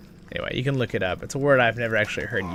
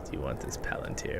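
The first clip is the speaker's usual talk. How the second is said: whisper; 12 semitones lower, 13 dB quieter than usual. Pretend. Offering Palantir jokingly.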